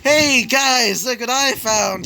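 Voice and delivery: put-on loud, high drunken holler; drunk crow. A narrator's reading. Drunk crow calling to the group, high and loud. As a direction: call out high and tipsy. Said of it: "you would hear a drunk-ass crow".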